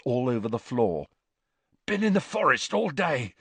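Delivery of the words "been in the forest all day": higher, puffed-out delivery; panting. A narrator's reading. Hagrid bursts into the ward, panting. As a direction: gasp it out after striding in. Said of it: "he panted".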